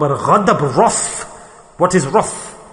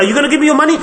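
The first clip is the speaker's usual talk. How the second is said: higher, louder demanding thief; threatening thief; 8 semitones higher, 3 dB louder, much faster than usual. Retold or imitated. Burglar demanding money from victim, menacing. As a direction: shake him down for money.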